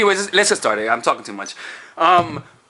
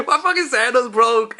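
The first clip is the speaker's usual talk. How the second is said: disbelief; 6 semitones higher than usual. Real, not acted. Sandals just broke mid-intro.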